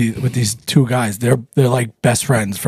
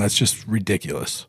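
whisper; 4 semitones lower, 8 dB quieter than usual. Real, not acted. Aside under his breath.

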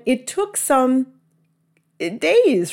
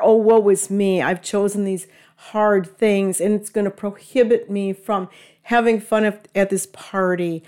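dramatic sigh. Retold or imitated. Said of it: "this kind of self-pity".

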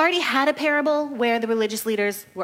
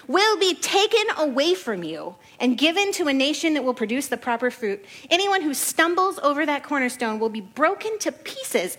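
raised voice; 4 semitones higher than usual. Shown as a demonstration. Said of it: "I hope he raised his voice, 'cause I am".

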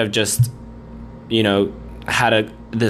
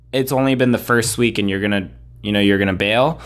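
questioning. Retold or imitated. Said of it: "That's literally kind of how I said it".

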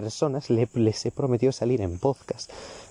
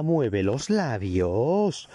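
exasperated; much slower than usual. Acted. Ranting at mumbling speakers.

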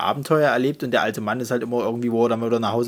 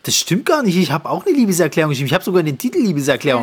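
indignant; 5 semitones higher than usual. Real, not acted. Indignant protest.

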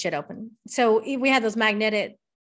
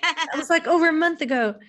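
imitating husband; 7 semitones higher, 4 dB louder than usual. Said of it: "he's gonna listen to this and be like".

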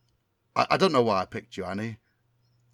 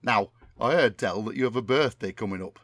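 Tommy Cannon impression. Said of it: "my memory of what Tommy Cannon sounds like".

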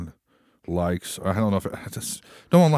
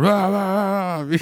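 Stone Cold imitation; 10 semitones higher, 3 dB louder, much slower than usual.

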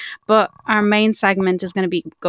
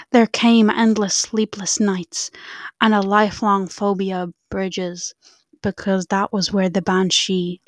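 spooky storytelling voice. Acted. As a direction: tell it like a campfire ghost story. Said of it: "Let me prepare my spooky voice".

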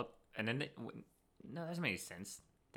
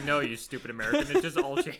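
mock French snooty voice, high; French accent; 5 semitones higher, 9 dB louder than usual. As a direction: play a snooty French local. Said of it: "They're like".

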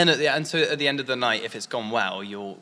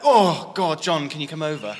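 mock dismayed call; 4 semitones higher, 5 dB louder than usual. Acted call to manager for help.

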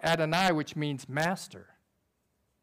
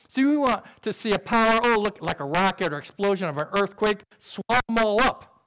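mock awe; 2 semitones higher, 4 dB louder than usual. Preacher mimics spectacular power.

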